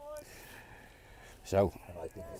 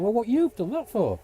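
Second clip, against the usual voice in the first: higher, mock exasperated teammate; exasperated batter; 8 semitones higher than usual. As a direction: lightly play a fed-up teammate. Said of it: "his mate's done exactly the same".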